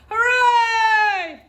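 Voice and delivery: high, loud cheer; joyful shout. A narrator's reading. The friends cheering together, loud joyful shout. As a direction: cheer it out with everyone. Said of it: "shouted little beaver".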